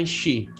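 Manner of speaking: she said with a full sh sound; thick she. Shown as a demonstration. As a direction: round the lips on the sh of she. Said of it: "she itu bacanya agak tebel". (she dibaca tebal)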